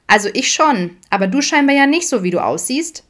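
put-on high, loud teasing child voice; laughing child. A narrator's reading. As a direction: tease cheekily as a little daughter. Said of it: "lachte sie herzlich".

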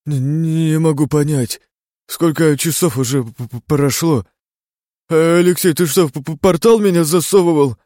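lost and rambling, tripping on words; delirious stammer. A narrator's reading. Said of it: "Бредит". (в бреду, заикаясь)

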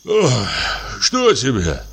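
sleepy, panting; just woken, breathing heavily; heavy breathing. Acted. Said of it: "тяжело дыша, с просонок".

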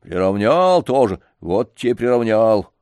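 put-on old man scolding the janitor's master. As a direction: raise your voice at him. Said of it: "возвысил голос дедушка".

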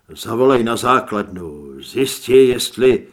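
loud, urgent order cut off by pain; urgent call. A narrator's reading. Zed urging a hunter to radio base, loud and urgent. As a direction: shout the order, then break off.

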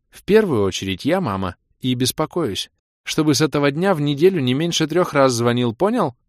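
insist, lifting sharply on the last word; stern, worried mother. Acted. Mother orders son to call weekly, insistent.

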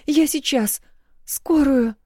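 high frantic calls; high, loud, frightened; panicked. A narrator's reading. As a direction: rush to phone for help. Wife panics over fallen husband.

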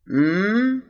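a drowsy closed-mouth moan; groggy mumble. Acted. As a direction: groan awake through closed lips. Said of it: "промычал тот". (маг сонно мычит, просыпаясь)

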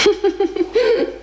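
bright high giggle; high laugh. Acted. (звонкий высокий смешок)

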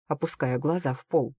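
plain reading voice

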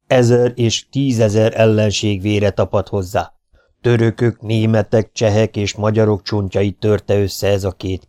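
booming warrior threat. Acted. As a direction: loom over them and roar your threat. Kinizsi threatens the traitors. (fenyegető, harsány hadvezéri hang)

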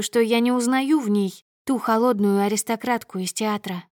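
usual speaking voice

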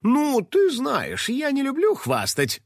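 high, slow, coy false modesty; modest. Acted. Finik to his assistant, mock modest. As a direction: play humble while clearly wanting to brag. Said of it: "скромно ответил Финик".

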